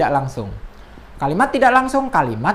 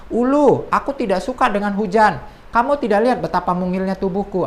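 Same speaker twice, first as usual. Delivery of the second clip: higher, louder voicing of a small animal complaining; fable dialogue voice; 4 semitones higher, 3 dB louder than usual. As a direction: read it as a little creature whining about the rain. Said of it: "percakapan-percakapan langsungnya di awal".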